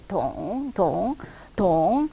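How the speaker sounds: 동 pitch falls right down; 삼성으로 쭉 내려가게; third tone. Shown as a demonstration. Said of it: "이렇게 쭉 내려가야 된다 그랬죠".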